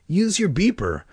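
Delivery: high, urging instruction; impatient. A narrator's reading. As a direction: urge her with acted impatience. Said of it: "impatiently walking over to her".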